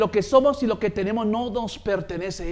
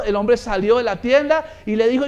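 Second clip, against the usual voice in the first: ordinary talk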